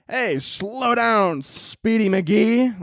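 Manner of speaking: put-on high, very slow transatlantic accent; drawn-out old-movie transatlantic drawl. Comic mocking a transatlantic speaker, high and very slow. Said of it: "transatlantic accent".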